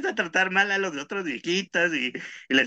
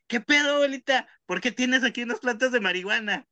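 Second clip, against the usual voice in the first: put-on surprised young woman; 7 semitones higher than usual. Nora to grandma, high startled question. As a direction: act out Nora catching grandma red-handed.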